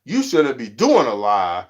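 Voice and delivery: blunt advice. Retold or imitated. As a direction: tell them plainly to hide their face. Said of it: "I'm like".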